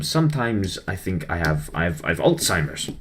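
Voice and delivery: lightly put-on French accent; terrible French accent. Student mimicking his French dance tutor, terrible French accent. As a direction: attempt a bad French accent at an everyday pitch. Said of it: "do a terrible French accent, uh, or impression of him".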